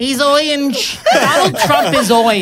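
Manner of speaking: after laughing hard. Real, not acted.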